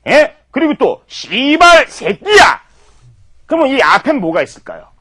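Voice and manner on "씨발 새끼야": shouted curse. Shown as a demonstration. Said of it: "이렇게도 쓰이고요".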